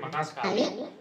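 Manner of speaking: very high, sped-up voice effect; squeaky chipmunk filter. Shown as a demonstration. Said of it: "suara kayak chipmunk begini". (suara chipmunk melengking tinggi)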